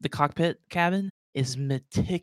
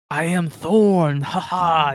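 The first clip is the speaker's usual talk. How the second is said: loud, slow orc with a chuckle; slow booming orc intro; hearty orc; 4 semitones higher, 9 dB louder, slower than usual. Acted. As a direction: announce your name like a proud big orc.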